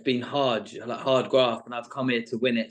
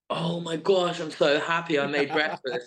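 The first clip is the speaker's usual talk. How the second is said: mock-relieved gush, pitched higher; acted-up happiness; 4 semitones higher than usual. Traitor acting happy to have made breakfast, mock delight. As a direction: put on a show of being delighted. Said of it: "the acting as well".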